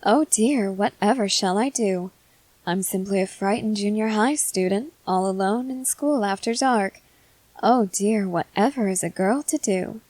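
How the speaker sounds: lilting, sarcastic damsel in distress; mock frightened girl. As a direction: play along with exaggerated helplessness, barely pretending to be scared. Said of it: "I suppose I'll go along with it".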